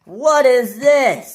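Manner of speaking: loud, high, drawn-out question; slow, high exclamation of disbelief; astonished. Acted. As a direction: stretch each word in amazement. Workman finds stuck engine.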